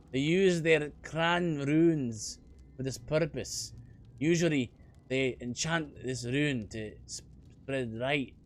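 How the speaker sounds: put-on a light, unsure Scottish accent. Dwarf explaining clan runes, faint Scottish accent. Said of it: "trying my best to do a Scottish accent".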